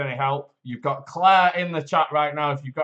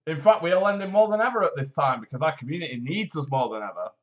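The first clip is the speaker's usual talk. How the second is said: polished advert read, steady and upbeat; voiceover voice. Acted. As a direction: sell it like a radio ad announcer. Reads the credit union advert.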